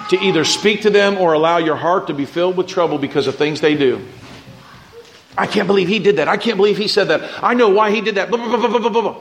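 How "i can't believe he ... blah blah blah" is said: higher, huffy mock complaint; a churchgoer griping about someone, mock-indignant and higher; indignant grumbling. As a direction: mimic a petty grudge, laughing. Mocking a grudge-holder's grumbling.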